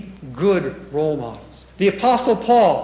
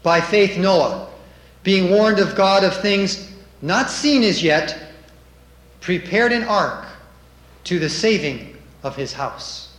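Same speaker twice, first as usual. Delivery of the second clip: loud, declaimed Bible verse; scripture reading; 3 dB louder than usual. Acted. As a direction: proclaim the verse firmly from the pulpit.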